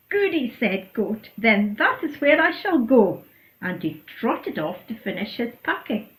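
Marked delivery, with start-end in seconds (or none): 0.1-3.2 delighted goody. Acted. Goat delighted by answer.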